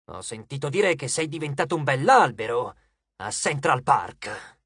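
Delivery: lightly voiced, measured taunting brother; calm titan. Titan reminding his boastful brother of his defeat, calm. Bob taunts Hyperion calmly.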